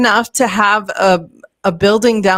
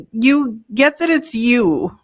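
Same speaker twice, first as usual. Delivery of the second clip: calm retold reply; 4 semitones higher than usual. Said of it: "he looked at me really calmly and he said".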